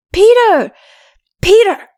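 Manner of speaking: put-on boy shouting his friends' names; child crying names. A narrator's reading. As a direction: yell to wake friends. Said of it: "he cried".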